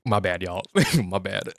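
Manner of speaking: low, chuckled apology; sheepish joking apology; laughing mock apology. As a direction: own up with a laugh. Joking imagined apology to viewers.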